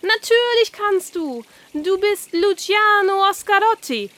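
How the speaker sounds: the carp pumping Oskar up with energy; grand carp voice. Acted. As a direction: inspire him like a showman.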